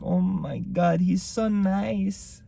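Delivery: high, slow swooning voice; Spanish girlfriend swooning over the brother, high slow coo; dreamy girlfriend. Retold or imitated. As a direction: coo it like she's smitten. Girlfriend quoted in Spanish accent.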